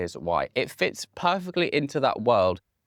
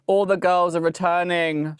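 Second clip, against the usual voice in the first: thrilled; 8 semitones higher, 6 dB louder than usual. Real, not acted. Thrilled girl group news.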